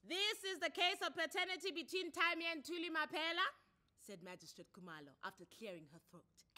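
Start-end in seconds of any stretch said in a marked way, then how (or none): 0.0-3.5 loud, high formal court opening; magistrate's formal announcement. Acted. Magistrate announcing the paternity case, loud and formal. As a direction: open the case with authority.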